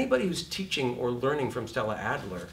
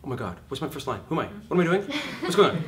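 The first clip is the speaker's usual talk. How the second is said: panicked; 3 semitones higher, faster than usual. Retold or imitated. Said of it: "you go".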